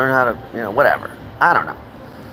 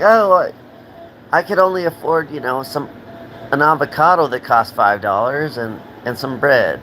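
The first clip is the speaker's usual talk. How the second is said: mock spouse reply; 2 semitones higher than usual. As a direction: sheepishly explain the empty fridge. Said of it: "It's like".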